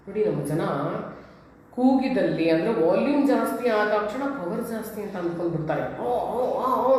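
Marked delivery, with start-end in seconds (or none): 6.0-7.0 mock crowd yell. Imitating a noisy crowd, mild mock yelling. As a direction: imitate people shouting for nothing. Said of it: "ಅಂತ ಕೂಗಾಡ್ತಿರ್ತಾರೆ".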